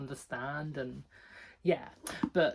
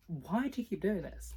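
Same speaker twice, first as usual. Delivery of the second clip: higher-pitched exasperated question; acted-out bafflement at someone's behaviour; retold annoyance; 4 semitones higher than usual. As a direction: plead in mock exasperation, pitched up. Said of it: "that one annoyed me".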